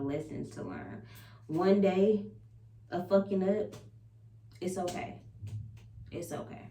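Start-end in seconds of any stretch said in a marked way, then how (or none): 6.1-6.6 whispered reassurance. Real, not acted. Reassuring herself after mistakes.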